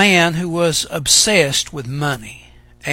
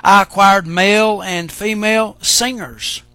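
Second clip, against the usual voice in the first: measured, solemn reading of scripture. Acted. Preacher reading Ecclesiastes aloud to the church, solemn.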